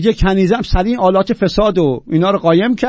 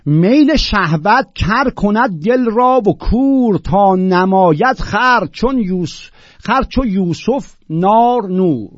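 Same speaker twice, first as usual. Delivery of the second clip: high, slow, loud declamation; emphatic classical Persian recital; poetry recitation; 4 semitones higher, 5 dB louder, much slower than usual. Acted. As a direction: proclaim the verse, stretching each phrase. Recites classical verse aloud.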